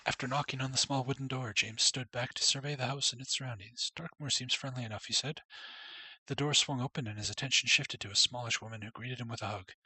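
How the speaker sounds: steady storybook reading voice; story narration. Acted. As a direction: read it like a storybook. Reads game story text.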